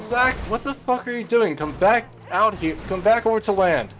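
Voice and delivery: a mom hollering her son back to shore; retold yell.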